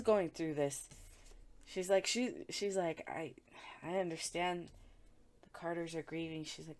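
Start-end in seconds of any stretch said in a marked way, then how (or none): 3.1-6.4 hushed, voiceless confiding; whispered aside. Retold or imitated. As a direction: say it under your breath, half to yourself. Voicing her forced politeness.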